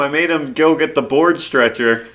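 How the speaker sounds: mock gloating coworker. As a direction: crow over the prank like a proud bully. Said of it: "mocks coworker bragging about prank".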